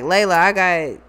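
low, subdued imitation of a man making excuses; Spencer. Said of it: "He like".

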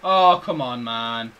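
loud groaning protest; exasperated outburst. Real, not acted. Gamer after a missed header, exasperated outburst.

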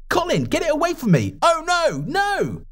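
high, terrified pleading to the brother; panicked plea. Acted. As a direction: beg like you're losing your mind.

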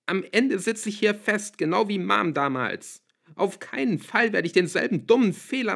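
high, loud, overwrought outburst; anguished tirade. A narrator's reading. Daughter forces her father to let go, anguished shouting. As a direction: hurl it out, desperate to wound. Daughter hurls hurtful words, tearful.

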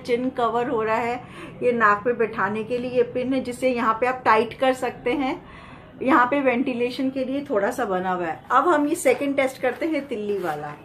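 muffled behind valved respirator; speaking through tight mask; through a face mask. Real, not acted. Seen 3: Mask with exhalation valve worn over nose and mouth throughout.

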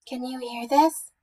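muffled, questioning little voice; mumbled into pillow. A narrator's reading. Mouse testing Bear's sensitive ears, muffled mumble. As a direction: talk as if into a pillow. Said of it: "Mouse mumbled into his pillow".

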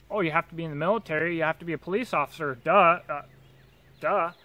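fast, dopey mocking quote. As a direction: rattle it off like a dim bureaucrat. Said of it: "why can't they put criteria".

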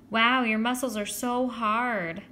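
put-on slow, cooing girlish awe; drawn-out, swooning admiration; admiring girl. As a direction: gush over his strength. Judy admires Joey's muscles.

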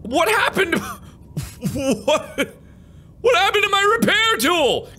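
high frantic yelping; freaking out, voice cracking high; panicked shriek. Real, not acted. Panicked shrill repeat.

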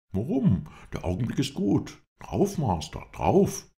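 high-pitched, excited Englishman; eager hothead. A narrator's reading. Englishman presses his master to attack, high and excited. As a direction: urge the attack in a loud, high voice. Hot-headed Lindsay urges attack.

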